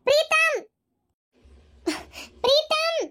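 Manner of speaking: high calling shout of Preetham across the house. Acted. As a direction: call him from another room. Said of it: "ಯಾಕ್ ಹಂಗ್ ಹರ್ಕೊಂತ ಇದೀಯ?". (ಜೋರಾಗಿ ಕೂಗಿ ಕರೆಯುವುದು)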